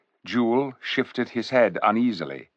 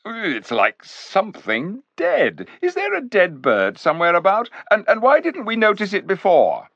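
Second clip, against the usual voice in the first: high, rising alarm, getting louder; much higher panicky questions; alarmed boy; 12 semitones higher, 5 dB louder than usual. Acted. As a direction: recoil in disgust and growing fear. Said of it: "gasped Eustace".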